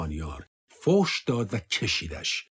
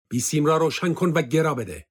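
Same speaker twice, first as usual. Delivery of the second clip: higher, curt command; commanding officer, raised; barked order; 5 semitones higher, 4 dB louder than usual. Acted. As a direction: order him to radio.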